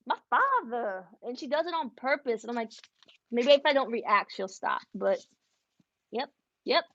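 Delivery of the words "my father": mock Southern "my father", lightly done; fake Southern accent. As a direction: echo the daughter's put-on Southern accent. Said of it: "she thinks she's Southern".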